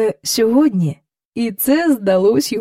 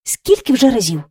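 grumbled. Acted. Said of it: "пробурчала вона".

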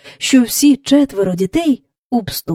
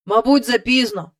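sad; 3 semitones higher than usual. Acted. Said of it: "сумно сказав він".

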